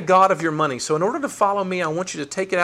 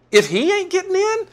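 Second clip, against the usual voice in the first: disciples; 13 semitones higher than usual. Retold or imitated. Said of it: "They were like".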